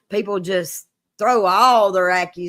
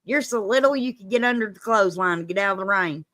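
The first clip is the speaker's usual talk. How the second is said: quoted daddy's saying; faster than usual. Retold or imitated. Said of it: "my daddy used to say".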